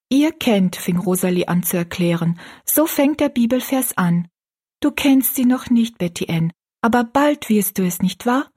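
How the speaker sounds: a lightly voiced girl teaching her friend; young Rosalie explaining. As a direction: explain it like a keen little girl. Rosalie explains the verse, higher voice.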